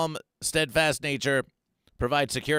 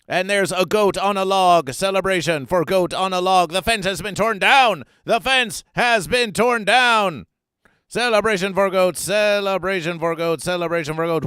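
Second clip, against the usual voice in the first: louder cheering, chanting the celebration; celebratory cheer; 3 semitones higher, 6 dB louder than usual. Real, not acted. Host celebrating goats to chat, loud cheer. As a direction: whip the chat into a goat chant.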